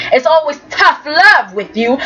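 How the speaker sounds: imitation of an accusing mother, hitting LOVE; mock scolding. Recapping a mother blaming Ashley for tough love, mock scolding.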